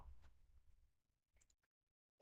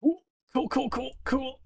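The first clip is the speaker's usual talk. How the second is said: high sing-song; 6 semitones higher, 10 dB quieter than usual. Acted.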